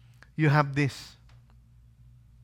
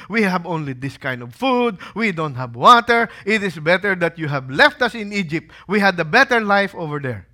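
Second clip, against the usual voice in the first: mildly aggrieved complaint, a bit louder; acted complaint; 2 semitones higher, 6 dB louder than usual. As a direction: voice the people grumbling, with emphatic stresses. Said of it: "When they complained".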